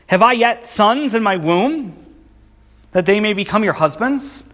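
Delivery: put-on a sarcastic edge on the old question. Naomi mocking her daughters-in-law, sarcastic. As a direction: let the sarcasm drip off it. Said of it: "You can hear the sarcasm".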